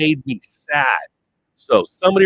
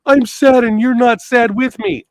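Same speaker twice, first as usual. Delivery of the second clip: mock whiny sad person; 7 semitones higher, 4 dB louder than usual. Mocking a sad person's complaint.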